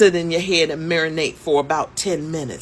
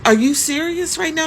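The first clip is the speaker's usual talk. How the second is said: incredulous; 9 semitones higher than usual. Retold or imitated. Younger woman incredulous.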